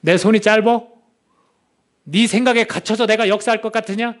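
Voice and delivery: lightly voiced divine challenge, pressing the question; God's rebuke. Pastor voices God challenging doubting Moses, mildly stern.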